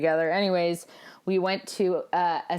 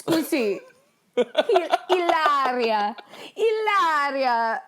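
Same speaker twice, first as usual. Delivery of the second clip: mock Spanish accent; 5 semitones higher, slower than usual. Mocking her fake Spanish name.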